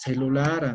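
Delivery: teacher models "celular" for the class. Shown as a demonstration. Teacher modelling the word for students, clear demo. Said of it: "¿Cómo se diría celular".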